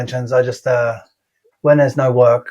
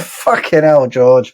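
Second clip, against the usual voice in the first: laughing exasperation; 3 dB louder, much slower than usual. Real, not acted. Repeats it, now laughing.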